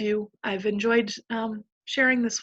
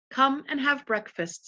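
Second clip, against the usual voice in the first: a touch of a gentle lamb, slowed; sweet milky voice; 4 semitones higher than usual. Acted. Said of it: "in a sweet, milky voice".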